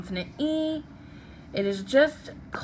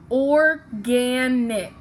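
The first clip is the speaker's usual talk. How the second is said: slow dictation; 3 dB louder, much slower than usual. Shown as a demonstration.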